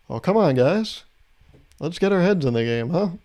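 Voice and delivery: tame, good-sport protest, lifted at the start; half-hearted angry nudge; mild mock anger. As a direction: play anger as harmless team pep talk. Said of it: "what I sound like when I'm angry".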